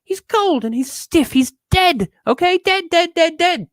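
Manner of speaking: high, rising panic, hammering every dead; frantic insistence. Real, not acted. Telling the audience the seatmate is dead, high frantic insistence. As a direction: insist he's dead, voice climbing and pleading.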